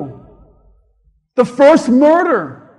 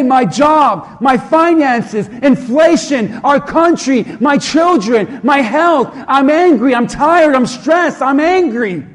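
louder listing of grievances, each one hit; venting frustration; 4 dB louder than usual. Retold or imitated. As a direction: pour out the complaints with mounting frustration. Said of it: "You might say".

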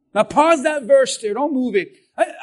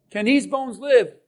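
gloomy pessimist. Retold or imitated. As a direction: let the voice drop away into defeat. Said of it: "Where are my pessimists at".

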